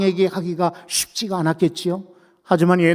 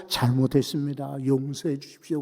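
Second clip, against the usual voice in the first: a touch of sobbing repentance, dropped softer; softer tearful plea; 3 semitones lower, 6 dB quieter than usual. Acted. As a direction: beg forgiveness quietly, lightly tearful. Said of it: "막 펑펑 울면서". (조용히 울먹이며 용서를 비는 왕)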